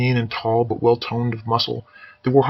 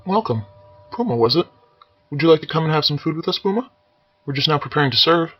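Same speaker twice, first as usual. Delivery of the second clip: higher, gentle welcoming voice; soft, higher Quaker girl's voice; gentle young woman; 5 semitones higher than usual. Acted. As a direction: invite the boy in softly. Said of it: "the woman's soft features and gentle voice".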